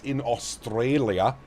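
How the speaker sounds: drawn-out, badly faked Australian accent; playful stab at an Australian accent. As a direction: stretch it out in a terrible fake Aussie accent. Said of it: "Terrible accent again".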